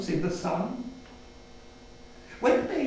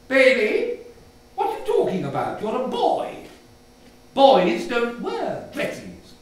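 put-on a mother shutting her child down; stern mother; 5 dB louder than usual. Mother scolds child about dresses, stern.

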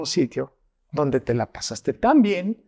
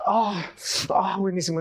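high, teary gasping "buenísimo" through the burn; diner choking on chili; 5 semitones higher than usual. Retold or imitated. Diner with watering eyes tells the host the food is great, in a high teary gasp. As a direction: play someone in tears from chili who swears it's delicious. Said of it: "una gente hasta está ya llorando".

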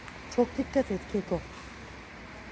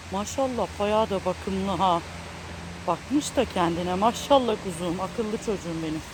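tender praise; 4 semitones lower than usual. Real, not acted.

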